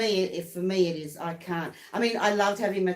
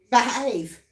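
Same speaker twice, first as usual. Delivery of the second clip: mock stern; 4 semitones higher, 5 dB louder than usual. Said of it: "as she walks out the door".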